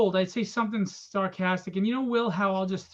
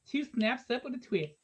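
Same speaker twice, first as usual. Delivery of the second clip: slightly raised, sing-out catchphrase; lightly voiced TV critic; 3 semitones higher, 4 dB quieter than usual. Host recalling movie reviews sketch, lightly imitated critic. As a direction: deliver it as a campy review verdict. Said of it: "the movie reviews".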